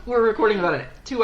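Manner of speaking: laughing through the words. Real, not acted. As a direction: say it while cracking up. Laughing about messy day.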